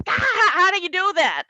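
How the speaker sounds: put-on high confused old man; puzzled dad voice; dad fumbling with earplugs. Dad baffled by earplugs, high and confused. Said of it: "He was going like this".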